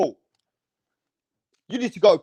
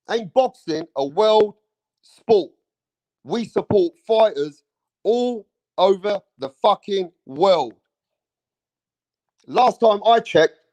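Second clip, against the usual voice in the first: every word hammered out slowly and loudly; slow angry emphasis; 4 dB louder, slower than usual. Real, not acted. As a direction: drive each word home like a verdict. Ranting at boxing haters.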